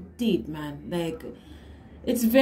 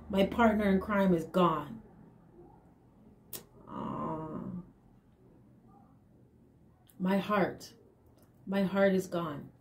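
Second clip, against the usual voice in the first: low, subdued voicing of a heartbroken partner; mourning; 3 semitones lower, 5 dB quieter, slower than usual. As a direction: lament it softly, with long pauses. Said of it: "this person is mourning".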